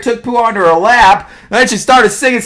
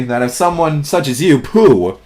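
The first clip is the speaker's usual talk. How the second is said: low, soft, ponderous voice; slow storybook donkey; slow gloomy donkey; 10 semitones lower, 4 dB quieter than usual. A narrator's reading. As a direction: mull it over slowly and quietly. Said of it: "said Eeyore slowly".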